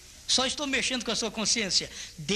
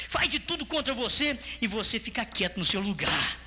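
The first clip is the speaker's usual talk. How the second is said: ordinary delivery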